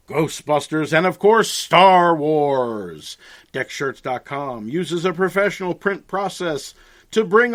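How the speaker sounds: booming ad announcer read. Acted. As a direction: sell it like a radio spot. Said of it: "in his best announcer voice".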